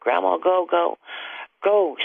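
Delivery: high, rising frantic go go go; hysterical screaming. Retold or imitated. Granddaughter screaming at grandma to get away, hysterical high cry. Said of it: "she just was screaming hysterical".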